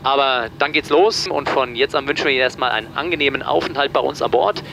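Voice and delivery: captain's cabin announcement over the PA; pilot cockpit headset. Real, not acted. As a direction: speak through the cockpit intercom. (Durchsage des Kapitäns über die Bordsprechanlage)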